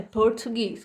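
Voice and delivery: "português" said as English Portuguese, ending in S; final S sound. Shown as a demonstration. Teacher showing students how the English word ends, final S sound. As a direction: finish "português" on a clean S, no E. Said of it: "com som do S no final".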